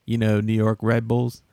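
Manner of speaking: cocky, self-assured guy; confident guy voice. Pretend. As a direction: play a guy known with confidence. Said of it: "I'm just doing a guy who's known with confidence".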